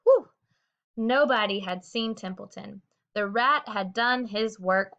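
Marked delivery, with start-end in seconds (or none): 0.0-0.3 sigh of relief. Acted. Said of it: "He sighed with relief".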